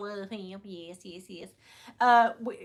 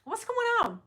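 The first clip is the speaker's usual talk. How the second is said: incredulous rant; 2 semitones higher, 4 dB louder than usual. Retold or imitated. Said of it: "And I'm like".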